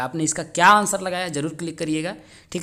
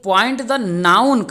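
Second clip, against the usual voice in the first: drawn-out, louder reading; slow dictation; 4 semitones higher, 7 dB louder, much slower than usual. Shown as a demonstration. Teacher reading the noun task to students, slow dictation. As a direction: announce the task slowly. Reads exam question aloud.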